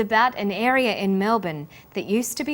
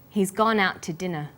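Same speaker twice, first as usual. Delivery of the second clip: "out to" run together, stressing "out" and passing lightly over "to"; linked sentence demo. Shown as a demonstration. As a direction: stress on He's, gone, out and dinner, with "to" unstressed. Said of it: "We stress he's, gone, out, and dinner".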